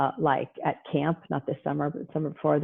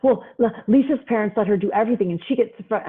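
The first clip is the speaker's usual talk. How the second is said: higher mock teen whine; whiny teen; 4 semitones higher than usual. Teen to mom about Lisa's parents, mock whine. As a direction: plead like a teen comparing parents. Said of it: "I know".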